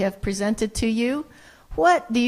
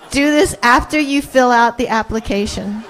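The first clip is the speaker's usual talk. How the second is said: laughing; 4 dB louder than usual. Real, not acted. Laughing at own joke.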